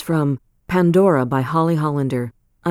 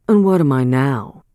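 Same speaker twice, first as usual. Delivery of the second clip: put-on demanding old man; 3 semitones lower, 3 dB louder than usual. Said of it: "demanded he".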